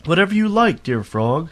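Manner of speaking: lightly eager, high-pitched promise; a touch of eagerness, starting high and strong; eager offer. A narrator's reading. Princess bargaining with the frog for her ball, mildly eager.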